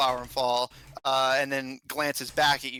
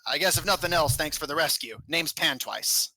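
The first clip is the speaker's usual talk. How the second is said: lightly voiced goblin giving grudging thanks; a touch of a curt goblin introducing himself; 3 semitones higher than usual.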